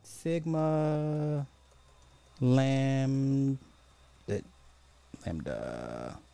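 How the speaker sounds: drawn-out syllables while typing; slow dictation. Real, not acted. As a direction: spell it out slowly for the search. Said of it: "Let's go look up sigma".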